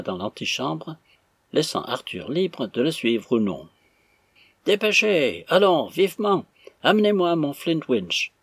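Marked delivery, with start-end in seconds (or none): 4.7-8.3 high, loud urging; impatient commands. A narrator's reading. Stranger bursting into the hall, loudly impatient. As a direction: hurry them along with raised voice.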